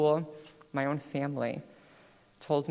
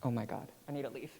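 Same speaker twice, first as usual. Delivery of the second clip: much softer, a near-hushed panic; panicked inner thought; 13 dB quieter, faster than usual. Retold or imitated. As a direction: mutter it to yourself in a sudden fluster. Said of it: "and I'm like".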